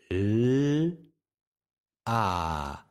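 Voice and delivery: L and A as two long, separate phonemes; sons séparés. Shown as a demonstration. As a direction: hold L as a pure sound, pause, then A. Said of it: "si je marie les sons L". (sons L puis A prolongés, séparés)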